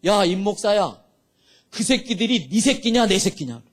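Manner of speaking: firm retold rebuke from God; thunderous voice of God. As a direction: challenge him as God would, lightly voiced. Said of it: "천둥 치는 소리가 들렸는데".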